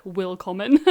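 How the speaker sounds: put-on WILLKOMMEN said with a heavy English accent; badly anglicised German in WILLKOMMEN. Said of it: "in a really bad English accent".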